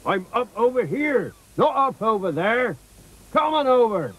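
high, hearty sailor's hail; calling back. Acted. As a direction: call the children over from a distance. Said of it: "called Mister Ship".

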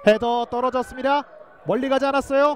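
excited call. Real, not acted. Attack building.

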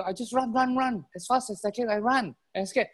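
high-pitched breathless-style retelling; urgent, high little escape story; excited rabbit account. Acted.

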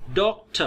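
"डॉक्टर" as "DOK-tuh", ending in schwa; unstressed second syllable. Shown as a demonstration. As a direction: stress the start of "डॉक्टर", reduce the ending. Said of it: "the second syllable is unstressed". ("डॉक्टर" के अंत में हल्का अ)

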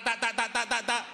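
normal talking voice

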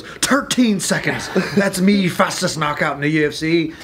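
lightly put-on Irish fighter boasting; Conor McGregor impression. Client quoted bragging in a light Irish voice. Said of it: "he always goes".

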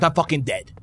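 normal talking voice

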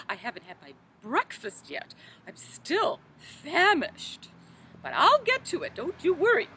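put-on fussy, fluttery old storybook lady, gently theatrical; Mother Goose voice. Children's librarian as Mother Goose, fluttery storybook voice. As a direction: play a dotty nursery-rhyme granny for children.

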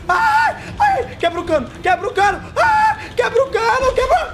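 high frantic cries; panicked yelling. Real, not acted. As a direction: scream in panic. Pânico com o monstro. (gritos agudos de pânico)

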